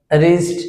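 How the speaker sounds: রিস্ট said as "rist", silent w; রিস্ট spoken as "rist" for a pupil; wrist said without the w. Shown as a demonstration. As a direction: say রিস্ট starting on the r, no w sound. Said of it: "ডাব্লিউটা silent থাকে".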